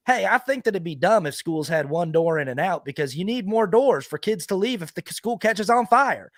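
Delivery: same character voice. Acted. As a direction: give the sensible line in the dumb character's voice. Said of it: "Could do the exact same voice".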